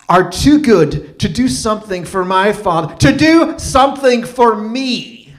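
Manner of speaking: put-on Irish accent building from measured disbelief to a high, loud, drawn-out tirade; mock Irish accent, slowing and swelling into fury; butchered Irish accent. Offended ex scolds Michael over the phone, badly imitated Irish accent building to rage. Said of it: "I'm gonna butcher her accent".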